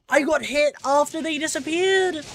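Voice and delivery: high, loud indignant yelp; frustrated outburst. Real, not acted. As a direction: protest the unfair hit out loud. Frustrated at unfair hit.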